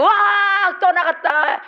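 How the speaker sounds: high, loud burst of imitated victory; mock triumph. Preacher acting the crowd's cheer as the demon leaves, excited. Exorcism climax exclaimed.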